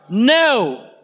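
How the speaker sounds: drawn-out Australian "no"; Australian accent. Shown as a demonstration. Preacher has congregation repeat a word, Australian accent. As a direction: say no with an Aussie twang. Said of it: "say it with an Australian accent".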